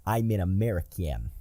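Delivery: hammed-up American bro accent; put-on American accent. Co-host jokily demonstrating a neutral American accent, hammed-up. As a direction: play a stereotype American, accent laid on. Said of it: "American accent".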